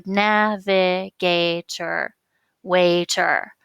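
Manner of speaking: "navigator" slowly broken into syllables, stress on GA, then "waiter" stressed on WAI; teacherly, drawn-out "navigator, waiter", leaning on GA and WAI; stress demonstration. Shown as a demonstration. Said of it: "That's where your stress is".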